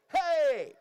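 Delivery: grito de coreo. Shown as a demonstration. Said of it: "y ustedes hacen".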